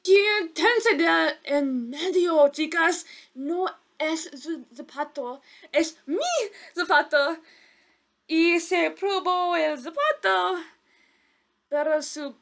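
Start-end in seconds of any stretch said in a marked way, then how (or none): 0.0-7.4 wicked stepmother. Acted. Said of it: "La madrastra dijo".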